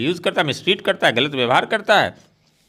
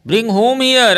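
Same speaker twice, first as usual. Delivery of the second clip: baffled; 6 semitones higher, 5 dB louder, much slower than usual. Acted. Father baffled by daughter's demand.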